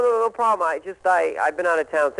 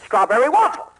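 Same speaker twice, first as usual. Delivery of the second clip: Regis Philbin impression; 2 semitones higher than usual. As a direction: pitch it like a TV host. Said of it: "as Regis Philbin".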